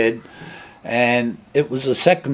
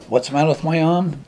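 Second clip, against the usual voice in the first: higher mock echo, falling flat at the end; defensive echo; 6 semitones higher than usual. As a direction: throw the question back, irritated. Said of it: "And I was like".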